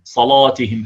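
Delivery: صلاتهم with a dark rounded a; Warsh heavy alif. Shown as a demonstration. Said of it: "كما في رواية ورش".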